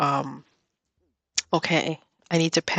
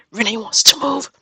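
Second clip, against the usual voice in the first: higher, excited burst; thrilled announcement; 6 semitones higher, 4 dB louder than usual. Real, not acted. Gamer reacting to her villager wanting to move, excited. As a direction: break the big news in delight.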